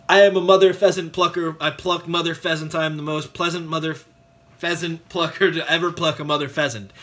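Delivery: brisk tongue twister after a countdown; brisk but careful run-through; quick recital. Shown as a demonstration. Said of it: "let's try and say it faster".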